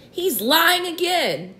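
high, slow indignant voice; shrieked. A narrator's reading. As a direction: tattle on the liar. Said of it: "shrieked the earthworm".

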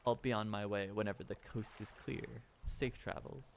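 a hushed courier sharing a strange secret; mysterious courier. Acted. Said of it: "courier signs off".

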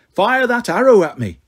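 drawn-up, daring taunt; goading villain, lightly pushed. A narrator's reading. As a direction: dare him to shoot. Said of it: "Lit taunted".

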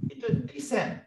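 "descent" with weight on the second syllable; descent pronounced clearly. Shown as a demonstration. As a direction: say "descent" as de-SENT. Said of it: "bila saya sebut descent tadi".

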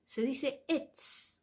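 etz drawn out very slowly for the class; teacher models etz for students taking notes, slow and careful; slow pronunciation demo. Shown as a demonstration. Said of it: "Cómo se dice en hebreo árbol".

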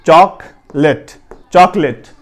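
چاکلیٹ as "chaak-let", two syllables; no middle vowel in چاکلیٹ; corrected pronunciation. Shown as a demonstration. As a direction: start چاکلیٹ like chalk, then "let". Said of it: "بلکہ چاک".

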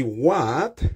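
drawn-out What a mess, dismayed; surprised exclamation. Shown as a demonstration. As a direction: react to a messy room. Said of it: "ou kapab di". (estonnen, "What a mess")

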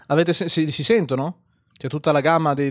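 ordinary delivery

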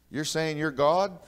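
high, loud and slow, scandalised; outraged challenge. Retold or imitated. Pharisees confronting Jesus, slow outraged shout. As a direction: hurl it back at him in disbelief.

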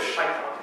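"shaitan" with the stress on SHAI; Hebrew-style word. Shown as a demonstration. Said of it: "based on linguistic understanding".

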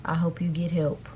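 whispered sign-off; snide whisper. Real, not acted. A woman ending her reply to someone asking money, whispered. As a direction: breathe it out dismissively. Snarky closing to money request.

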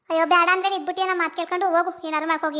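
mother-in-law scolding the daughter-in-law for not washing the dishes. Acted.

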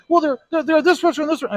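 high, whiny and fast; whiny victim. Retold or imitated. Touchy internet user defending hurt feelings, high whine.

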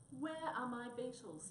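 slow, loud, high-pitched yell. Acted. Headman yells at Mouse for his beetles, slow yell. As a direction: drag each word out in a furious yell. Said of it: "yelled the headman".

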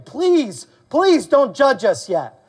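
high, drawn-out mock plea; begging. Preacher voicing the maniacs before Jesus, begging. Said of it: "they're begging".

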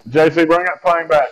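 urgent, exasperated squad call; panicking gamer. Real, not acted. Teammate drops the escape plane.

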